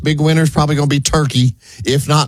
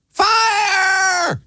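high-pitched shriek of fire; shrieking scream. Pretend. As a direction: shriek it like a panicked woman. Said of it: "somebody screaming".

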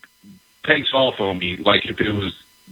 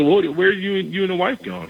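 surprised; 8 semitones higher than usual. Retold or imitated. Teasing teammate about date night.

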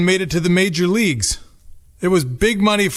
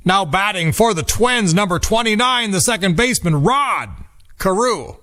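stadium announcer introducing the batter, higher pitched; Bob Casey; 5 semitones higher than usual. Retold or imitated. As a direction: sing out the batter intro like a ballpark PA. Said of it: "a Bob Casey announcer saying".

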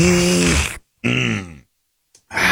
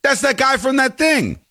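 high, far-off confused voice fumbling for a name; high scatterbrained voice unable to place the actor; mock confused self; 13 semitones higher than usual. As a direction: play yourself blanking on an actor's name. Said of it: "I go".

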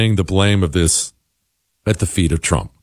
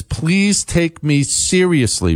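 slow, higher-pitched earnest plea; emphatic plea; 5 semitones higher, slower than usual. Retold or imitated. Host reading a listener's email, emphatic plea. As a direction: draw out the plea with exclamation-point emphasis. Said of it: "with an exclamation point".

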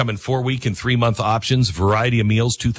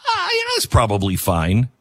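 mock dismissive. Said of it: "suspicious of the phrase".

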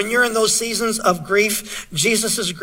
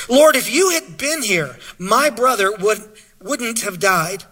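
hurting plea. Shown as a demonstration. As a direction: let the hurt break through, then trail off. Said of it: "Can you imagine hearing those words?".

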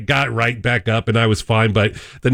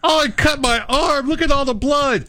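much higher, hammed-up whining; whiny patient; 13 semitones higher than usual. Cohost plays a whiny patient in the rude paramedic bit. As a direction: overplay a tiny cut.

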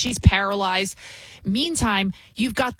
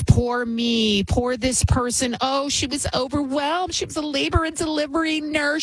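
higher sarcastic pity for excuses; mock pity; 5 semitones higher than usual. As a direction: whine the excuses mockingly. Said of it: "everything's an excuse".

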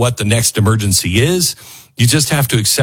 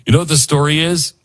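usual speaking voice

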